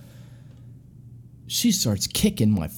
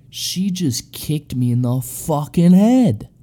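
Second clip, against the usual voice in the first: louder, slow and higher, in disbelief; stunned realization; 4 semitones higher, 5 dB louder, slower than usual. Retold or imitated. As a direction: drag it out, shocked he got hit. Realizing he got head-kicked.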